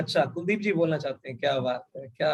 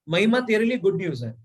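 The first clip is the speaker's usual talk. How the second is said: bright, eager good-news opener; lightly upbeat announcement to a friend; good news teaser. Shown as a demonstration. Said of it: "जब हम कभी किसी को ये बोलते हैं गुड न्यूज़ है".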